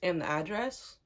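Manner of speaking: cool, deadpan question; stone cold. Retold or imitated. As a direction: ask it coldly, imitating a confrontation. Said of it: "I was just stone cold".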